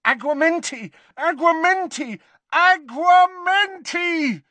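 frantic spellcasting. Acted. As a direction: repeat it with mounting panic. Panicked Harry repeats the failing spell.

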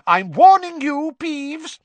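teacher threatening Peeves; McGonagall shouting. Acted.

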